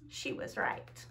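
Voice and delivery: whispered story ending. A narrator's reading. Ending the story for the kids, in a whisper. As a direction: breathe the last words out.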